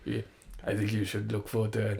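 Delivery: softly imitated football manager, quick; lightly voiced manager, quiet and confident; Arsene Wenger. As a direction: say it softly and briskly. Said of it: "Wenger. Yeah, yeah. He was like".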